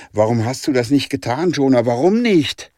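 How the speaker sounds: rising, insistent reproach; reproachful. Acted. Danica reproaching Jonah for his choice, insistent. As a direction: press him for an answer. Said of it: "machte Jonah ... einen Vorwurf".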